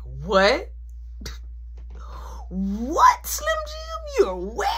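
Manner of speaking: high shocked laughing cry; shocked that she showed up. Retold or imitated. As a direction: squeal of disbelief. Friend is outside the house.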